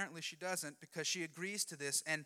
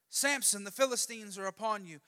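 raised but less forceful call to wake him; milder warning call; 3 semitones higher than usual. Acted. Same wake-up call, fourth time.

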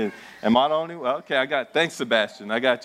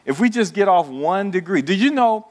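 rising louder, higher; excited build; 7 semitones higher, 4 dB louder than usual. Real, not acted. Preacher rousing the congregation, louder and higher. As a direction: pitch climbs as the point lands.

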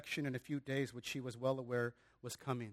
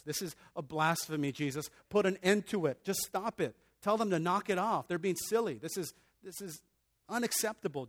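indignant scolding, raised in bursts; acted outrage, pitched up on the demands; outraged Pharisees; 3 semitones higher, 3 dB louder than usual. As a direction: order it stopped like an offended religious leader. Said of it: "the Pharisees are outraged".

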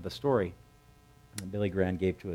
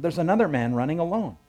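higher, louder call across the gate; 8 semitones higher, 5 dB louder than usual. Retold or imitated. Watchman calling to the gatekeeper, loud call. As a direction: shout the sighting up to the gatekeeper. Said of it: "the watchman called to the gatekeeper".

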